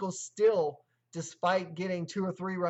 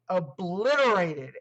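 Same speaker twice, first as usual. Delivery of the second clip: "obliterated" said with extra weight; stress on obliterated; 4 dB louder than usual. Shown as a demonstration. Vlogger stressing how badly the Dodgers won, hitting "obliterated". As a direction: lean hard on "obliterated". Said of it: "I want to put emphasis on the word obliterated".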